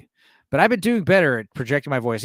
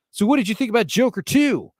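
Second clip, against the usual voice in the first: retold questioner; 7 semitones higher than usual. Voices man asking others.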